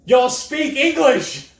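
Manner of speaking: loud, high, slow drawled Southern shout; Southern movie character. Retold or imitated. Man quoting the Snatch character, shouting slow Southern drawl. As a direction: bellow it like a baffled Texan abroad. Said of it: "couldn't understand a word they were saying".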